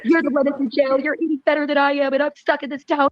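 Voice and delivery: retold complaining. Retold complaint to jailed partner.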